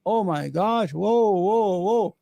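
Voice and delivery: hammed-up gasping dismay; mock shock. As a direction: play the shocked viewer, oh my gosh. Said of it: "We all go crazy".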